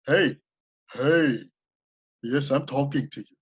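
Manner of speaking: mild playful commercial pitch. Shown as a demonstration. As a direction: hail the listener like a playful brand. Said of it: "His biz has to come in like".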